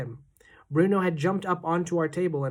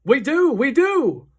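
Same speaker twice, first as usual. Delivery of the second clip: slow, loud, high anguished cry; desperate cry; 11 semitones higher, 10 dB louder, slower than usual. A narrator's reading. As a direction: wail it in dismay. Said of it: "cried Mister Jenkins".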